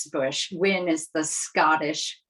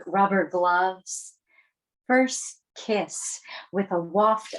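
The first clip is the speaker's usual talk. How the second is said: measured poem recital with pauses; poetry reading. Acted. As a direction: read the poem aloud, line by line. Poet reads own poem aloud.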